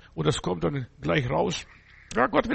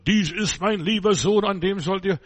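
louder proclaiming voice of God from heaven; 2 semitones higher, 4 dB louder than usual. Acted. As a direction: announce it like a voice from the sky. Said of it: "Die Stimme vom Himmel".

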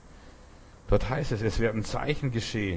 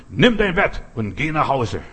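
commanding Jesus; 2 semitones higher, 5 dB louder than usual. Retold or imitated. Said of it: "dann sage ich nicht nur".

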